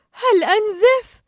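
high, slow, frightened question; worried question. Acted. Dory touches her face and asks Bruce, frightened. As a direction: ask slowly, scared of the answer. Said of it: "تحسست دوري وجهها وسألت".

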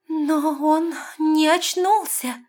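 high, slow anxious voice; worried. A narrator's reading. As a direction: say it fearing the worst. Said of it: "с волнением заметила Лестра". (тревожно, медленно)

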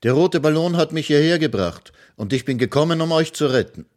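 put-on eager little boy proclaiming; young hero announcing. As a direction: tell the children the wizard is dead. Fritz promises to bring them home.

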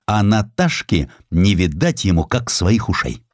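plain reading voice

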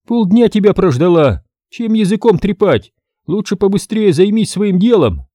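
суровый женский голос выше и громче; грубо осади наглеца; сурово. Acted. Брюнетка продолжает отчитывать. (брюнетка сурово осаживает мастера высоким голосом)

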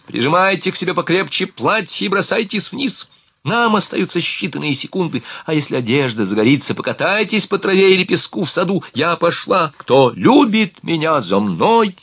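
high-pitched rallying call, restrained in volume; urgent yelling. A narrator's reading. Vanina rallies everyone to jump through flames, calling out urgently. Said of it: "заорала Ванина".

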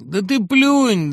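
slow, high and loud; droning insistence. Acted. Old pal drumming advice into his friend, slow loud. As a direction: hammer it in without listening. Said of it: "долдонил Шептулин".

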